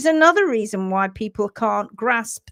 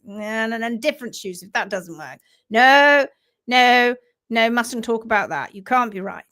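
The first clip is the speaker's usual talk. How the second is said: mock stubborn vet. Imitating a closed-minded vet dismissing a worried owner. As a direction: lightly send up a vet who won't listen. Mimicking a vet refusing barefoot trimming.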